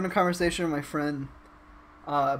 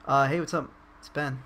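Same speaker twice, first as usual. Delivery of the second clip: lower, toned-down everyday voice; regular voice; 3 semitones lower than usual. Shown as a demonstration. Meeting someone in real life, regular unexcited voice. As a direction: drop the pep, introduce yourself low-key. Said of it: "This isn't my regular voice".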